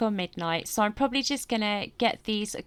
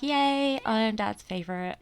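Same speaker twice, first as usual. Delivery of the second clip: beaming with pride; 3 semitones higher than usual. Acted. Child delighted to be Dad's favourite, beaming with pride. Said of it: "she's just beaming with pride".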